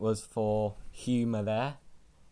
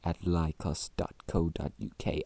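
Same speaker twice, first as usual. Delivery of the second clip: sultry voice; 4 semitones lower than usual. Acted. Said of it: "my sultry voice".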